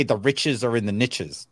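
NICHES said "nitches", rhyming with riches; imitated mispronunciation. Co-host quoting YouTube gurus, niches as "nitches". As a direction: rhyme niches with riches, short i. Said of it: "they always like to say".

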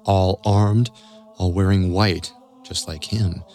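tense documentary storytelling; story narration. A narrator's reading. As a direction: build suspense line by line.

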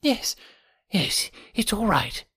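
high, slow, hesitant quaver; reedy, quivering voice. A narrator's reading. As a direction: give in slowly, in a thin high voice. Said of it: "said the voice at last".

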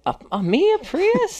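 surprised. Real, not acted. Shocked at idea of Prius.

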